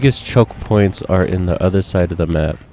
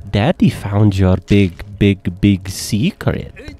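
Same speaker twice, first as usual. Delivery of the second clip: taunting; slower than usual. Acted. Taunting the killer.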